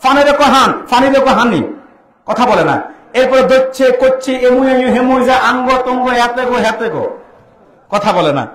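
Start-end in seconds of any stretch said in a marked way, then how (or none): 0.0-1.7 lightly mocked Noakhali accent, f turned to h; a preacher teasing Noakhali speech in light Noakhali accent. Preacher mimics Noakhali speakers in a light Noakhali accent. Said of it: "তারা ফ বলতে পারে না, পরে বলে হ". 3.1-7.2 put-on Noakhali accent. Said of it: "নোয়াখালীতে যান, ভাষা চেঞ্জ".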